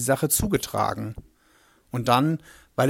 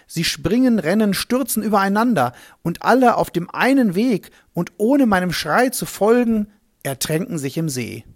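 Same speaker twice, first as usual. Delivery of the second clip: higher, faster rushing telling; the herdsman reliving the stampede, hurried and higher; breathless excitement; 4 semitones higher, 3 dB louder than usual. Acted. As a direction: build the panic of the stampede. Swine stampede into the lake.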